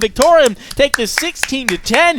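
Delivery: loud, high, drawn-out victory call; excited shout. Real, not acted. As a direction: bellow the win to the crowd. Caster calls the winning round.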